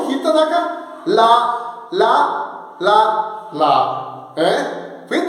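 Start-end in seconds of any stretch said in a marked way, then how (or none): 1.1-4.3 "la" said on one tone, falling on the last; tone demo. Shown as a demonstration. Teacher demonstrates the tones of "la" for students. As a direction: step through each "la" slowly. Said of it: "vamos a ver".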